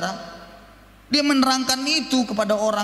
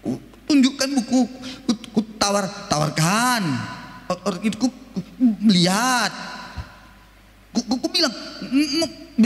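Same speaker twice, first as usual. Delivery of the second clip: stuttering salesman. Retold or imitated. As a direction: stammer out the sales pitch. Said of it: "gitu aja dibilangnya".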